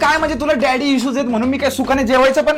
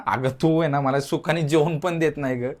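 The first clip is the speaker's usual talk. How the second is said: put-on quoting girlfriend's complaint; 8 semitones lower, 5 dB quieter than usual.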